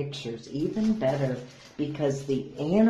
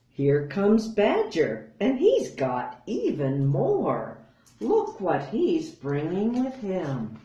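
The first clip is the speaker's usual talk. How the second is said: louder, higher eager call; excited announcement; 4 semitones higher, 4 dB louder than usual. Acted. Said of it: "hare announcing badger".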